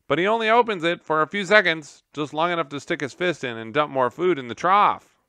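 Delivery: high, loud, fast squeaky voice; a gerbil explaining the janitor's routine, piping. Acted. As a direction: pipe up eagerly. Gerbil continues.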